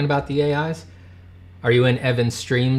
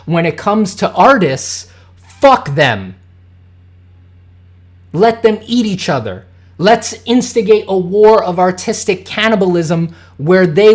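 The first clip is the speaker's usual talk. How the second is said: mock company subtext; 2 semitones higher, 4 dB louder than usual.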